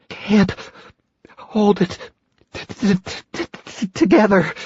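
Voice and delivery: high, stuttering with cold; chattering teeth. Acted. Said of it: "she muttered".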